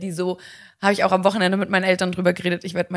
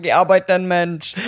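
strenge Mutter; 5 dB louder, slower than usual. Pretend. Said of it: "So zu meinem Dreijährigen so".

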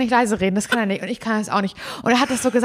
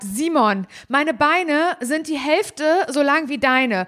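playfully exasperated, pitched up in places; mock complaining; 4 semitones higher, slower than usual. Telling friend she can't keep up, mock complaining. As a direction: re-enact your jokey grumble at a long-legged friend. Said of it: "So hab ich mit dir geredet".

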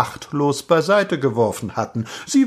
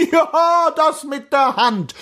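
high, emphatic gossip; excitable cloakroom woman; 3 dB louder, slower than usual. A narrator's reading. Cloakroom woman agreeing with the prince, high indignant gossip. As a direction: pounce on it in a high voice. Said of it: "sagte die Garderobiere".

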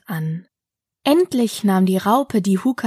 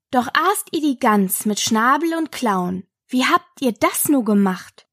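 lilting, measured verse; higher-pitched schoolgirl recital; poem recitation; 3 semitones higher than usual. Acted. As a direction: recite it line by line in rhythm.

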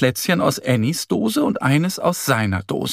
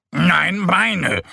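angry snort; 6 semitones higher than usual. Acted. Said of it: "schnaubt Mo wütend".

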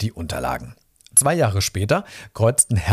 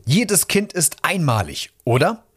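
higher, eager exclamation; excited call; 7 semitones higher than usual. A narrator's reading. Mother-to-be insisting to her husband, excited call. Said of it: "Sie sprang auf und rief".

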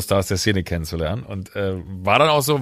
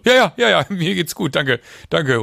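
flustered excitement; 7 semitones higher, 4 dB louder than usual. Retold or imitated. Starstruck reply to a singer.

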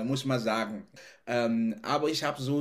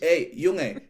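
mock telling off. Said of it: "Und da denke ich".

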